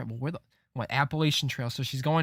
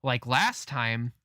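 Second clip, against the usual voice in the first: slow incredulous echo; 3 semitones lower, much slower than usual. Real, not acted. Echoing the game's line in disbelief.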